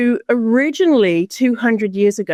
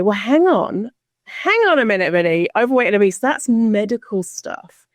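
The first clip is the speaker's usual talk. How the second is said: mock objection; 2 semitones higher than usual. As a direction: butt in as a doubter, lightly imitated. Acting out objecting folks.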